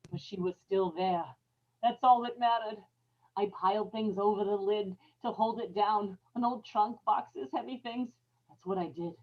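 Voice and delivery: soft, secret murderer's calm; hushed. Acted. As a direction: confess it under your breath. Ella calmly recounts hiding the body.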